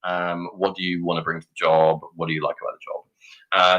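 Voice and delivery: mock interview questions. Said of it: "throwing in bog standard interview questions".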